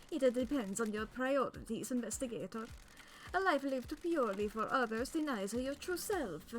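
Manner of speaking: hammy exaggerated Italian accent; cartoonish Italian accent, grand and theatrical; over-the-top Italian accent. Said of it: "since I couldn't do an Italian accent".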